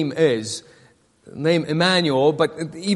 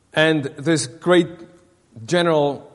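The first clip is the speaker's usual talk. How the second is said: usual speaking voice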